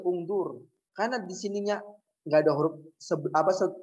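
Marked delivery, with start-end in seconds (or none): 0.0-0.7 ungdur begun on a clear u; sounded initial hamza. Shown as a demonstration. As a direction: start "ungdur" with an audible u, nothing joined before it. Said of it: "Kecuali kayak ini nih".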